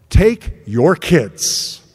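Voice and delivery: slow, drawn-out weary demand; mother at the end of her rope; exasperated. Retold or imitated. Wife to husband after a long day, exasperated.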